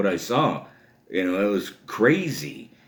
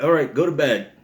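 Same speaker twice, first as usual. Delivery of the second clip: raised-pitch mock order; lightly voiced crabby babysitter; bossy babysitter; 6 semitones higher, 3 dB louder than usual. Babysitter sends a toddler to bed, mock bossy.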